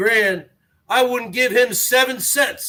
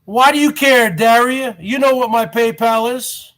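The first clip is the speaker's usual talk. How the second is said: calling out; 4 dB louder than usual. Real, not acted. Calls out viewer Daria.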